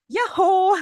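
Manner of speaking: bright high call of Yahoo to a friend; cheerful yahoo. Shown as a demonstration. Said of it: "Like, "Yoo-hoo!".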